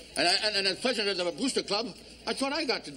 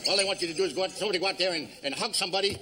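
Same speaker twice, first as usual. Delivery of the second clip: talking through Novocaine; slurred numb lips; numb mouth. Acted. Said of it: "How come you're talking so funny?".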